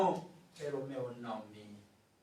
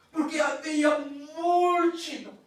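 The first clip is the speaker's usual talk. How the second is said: crying shout; 6 semitones higher, 4 dB louder than usual. Real, not acted. Emotional preaching.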